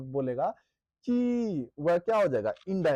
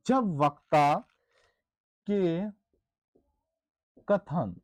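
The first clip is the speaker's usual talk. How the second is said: slow dictation. Shown as a demonstration. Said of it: "ऐसे लिख सकते हैं".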